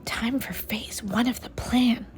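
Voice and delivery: soft conspiratorial whisper. A narrator's reading. The brain nudging Francine to start, whispered. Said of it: "he whispered".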